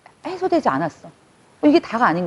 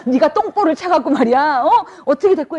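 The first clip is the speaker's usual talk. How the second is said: mock angry fan rant; 4 semitones higher than usual. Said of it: "막 이렇게 막".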